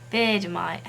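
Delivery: "Vegemite" in an attempted Australian accent; amateur Australian take on "Vegemite"; imitated Australian accent. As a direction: copy an Australian saying "Vegemite". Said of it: "is how she says it".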